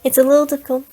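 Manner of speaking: put-on a mild try at her odd accent; Akasha accent attempt. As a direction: test the weird accent on "a little difficult". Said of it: "I'm trying to get her voice down".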